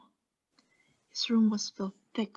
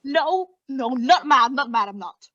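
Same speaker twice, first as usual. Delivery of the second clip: frantic denial; 4 semitones higher, 8 dB louder than usual. Acted. Denying madness to listener.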